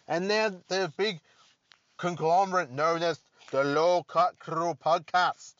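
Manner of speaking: announcer voice. Acted. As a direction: boom it out like a trailer voice-over. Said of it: "Don't know why I did that voice".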